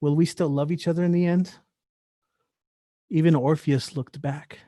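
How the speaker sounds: rhythmic spoken-word delivery, pausing between images; poetry recital. Acted. Poet performing for listeners, spoken-word recital. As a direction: perform it as a poem, riding the wordplay.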